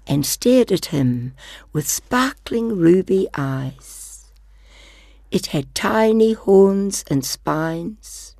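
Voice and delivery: storybook narration; reading to children. Acted. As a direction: read it like a picture book. Reads second picture book.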